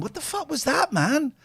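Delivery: high, exasperated director's yell; angry director. Retold or imitated. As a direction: snap at him like a fed-up boss. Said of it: "the director went".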